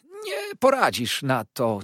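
high, slow, oily hushed voice; soft slow Uriah. A narrator's reading. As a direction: hush him with false calm. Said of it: "ciągnął". (cichy, powolny, obłudny głos)

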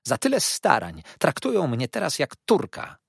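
high, loud self-pitying complaint; aggrieved wail. A narrator's reading. Mother complains of her treatment, aggrieved wail. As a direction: lament loudly, pitched well up.

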